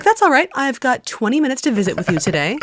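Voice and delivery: high-pitched, easygoing reassurance; cheerful and chill. Retold or imitated. Host quoting the guest's reply on the phone, cheerful and chill. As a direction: imitate someone breezily unbothered. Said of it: "he was so cheerful and chill".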